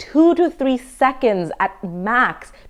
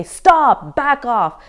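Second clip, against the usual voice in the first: higher-pitched, half-hearted yell; mock yell; 5 semitones higher, much slower than usual. Shown as a demonstration. Showing what self-defense programs teach, mock yell. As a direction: demonstrate a yelled command without really shouting. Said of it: "start yelling or screaming or say".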